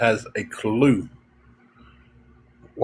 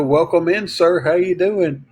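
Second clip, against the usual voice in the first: higher, bright front-desk greeting; cheery greeter; 5 semitones higher than usual. Retold or imitated. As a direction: welcome them like an eager clerk. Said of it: "hit the".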